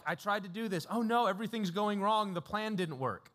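hammed-up panicky whine; mock panic. Preacher imitating a Paul he never was, mock panic. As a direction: play a flustered planner, tongue in cheek. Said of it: "He's not like".

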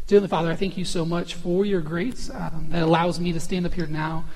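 hushed, reverent prayer voice; opening prayer before the sermon. Acted. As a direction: speak to God, humble and sincere. Pastor opens in prayer.

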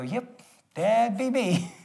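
slow, wry yep; slow deadpan reply; slow drawn-out reply. Retold or imitated. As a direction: stretch the words out, amused. Answering hitchhiker's question slowly.

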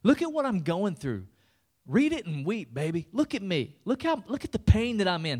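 milk the pain for attention, half-hammed; attention seeking. Preacher mocks a self-pitying Jesus. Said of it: "Jesus wasn't saying".

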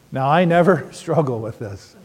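joking with a laugh on never; tongue-in-cheek denial to the room; mock innocent boast; ironic claim. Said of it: "Right, honey?".

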